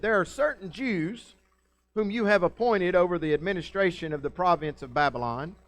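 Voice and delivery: measured, formal accusing tone; lawyer voice. Retold or imitated. Preacher voicing accusers to the king in lawyer voice. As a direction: present the charge like a prosecutor. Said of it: "I'm using my lawyer voice".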